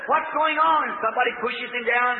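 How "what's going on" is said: high-pitched cry from the roadside; blind beggar calling out. Retold or imitated. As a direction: call out over a noisy crowd. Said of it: "He raised up and said".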